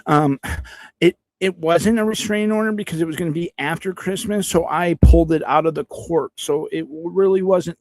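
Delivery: high, whiny mock voice of the ex; mocking imitation. Streamer mocks the ex's excuse to chat, high whiny mock voice. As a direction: sneer her excuse back at her. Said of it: "today you're like".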